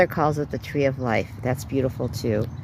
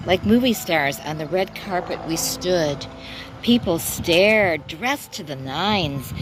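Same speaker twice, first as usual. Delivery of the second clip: measured, lilting poem recital; poem reading. Acted. Poet reading their own verse to viewers, lilting recital. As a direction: read it as verse, drawing out the phrases.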